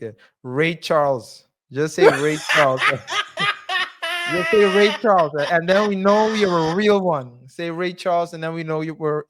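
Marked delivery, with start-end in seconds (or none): 1.7-2.8 laughing. Real, not acted. Laughs at own joke. 2.8-4.3 sudden high laugh at his own joke; high giggle bursting out; high burst of laughter. Real, not acted. 4.3-7.5 laughing excitement. Real, not acted. Repeating the joke keyword.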